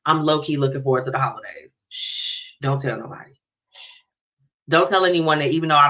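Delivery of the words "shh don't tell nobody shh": playful hush. Pretend. Playful secret to listeners.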